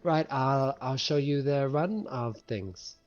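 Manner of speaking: put-on light, hesitant, slowed girl's voice; shy halfling girl. Shy halfling girl showing the new crewmate round, in a soft voice. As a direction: play a shy little halfling. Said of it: "I need to change voice".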